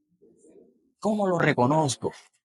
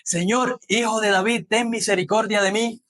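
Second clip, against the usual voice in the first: mild pleading call; 5 semitones higher than usual. Retold or imitated. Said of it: "al Bartimeo decir".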